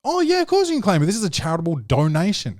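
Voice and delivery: imitating the instructed sales spiel; fake reassuring pitch. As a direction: sell the lie brightly. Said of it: "we were instructed to say".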